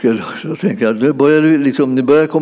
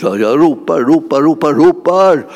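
building cry; 3 semitones higher, 4 dB louder than usual. Acted. Preacher acts out desperate crying out.

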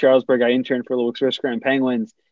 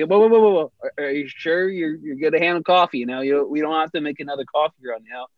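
mock teasing. Teasing intern about spilled coffee.

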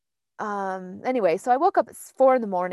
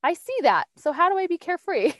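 acting out acceptance; 9 semitones higher than usual. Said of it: "And I was like".

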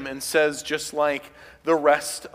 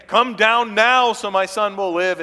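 urgent command; 6 semitones higher, 6 dB louder than usual. Acted. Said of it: "The man gives him a command".

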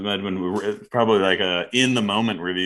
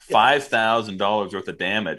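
mock outrage; 5 dB louder than usual. Mocking the reviewer's outrage.

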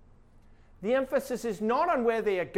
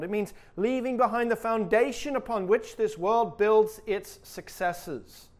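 building preaching; 2 semitones higher, 6 dB louder than usual. Real, not acted.

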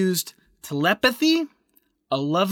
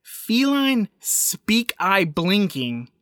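slow, quoted; 2 semitones higher, much slower than usual. Retold or imitated. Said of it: "She adds that she used".

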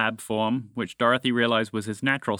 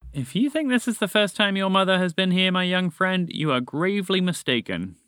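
dramatic; 6 semitones higher than usual. A narrator's reading. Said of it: "That sounds a bit dramatic".

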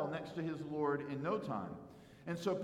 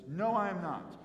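acted firm, punched denial; emphatic denial; 3 semitones higher, 4 dB louder than usual. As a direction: deny it point-blank, in mild re-enactment. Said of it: "it's emphatic".

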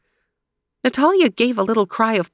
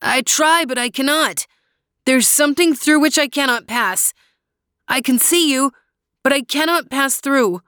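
lightly voiced boy, a little higher; a hint of a young boy; young brother voice; 6 semitones higher than usual. A narrator's reading. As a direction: gently answer his sister. Luis voiced by narrator.

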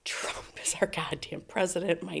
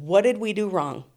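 confronting police; 2 semitones higher, 6 dB louder than usual. Retold or imitated. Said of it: "And I said".

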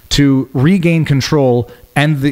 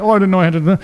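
higher, fake-innocent whiny voice; mocking excuse; 5 semitones higher, faster than usual. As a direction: play dumb, mock the excuse.

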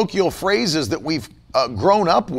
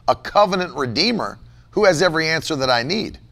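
normal talking voice

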